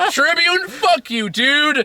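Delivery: high, exasperated mock cursing; mock outrage. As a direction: curse the guard, hammed up. Mocking Peter's curses at guard.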